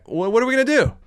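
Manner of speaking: exasperated. Real, not acted. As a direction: throw the question up in frustration. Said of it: "I just get so disappointed".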